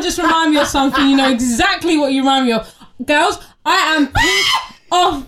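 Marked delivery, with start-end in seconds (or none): 3.1-5.2 slow, emphatic venting; worked-up anger. Real, not acted. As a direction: spell out your anger, half laughing. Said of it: "'cause I'm fucking angry".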